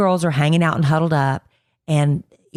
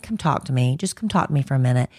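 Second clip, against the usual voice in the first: gently; 3 semitones lower, 3 dB quieter, faster than usual. Retold or imitated. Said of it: "talking to her very gently".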